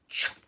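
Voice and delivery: short, loud chop; abrupt axe-stroke noise; wood-chopping sound. Acted. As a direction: imitate an axe hitting wood. He was cutting the wood.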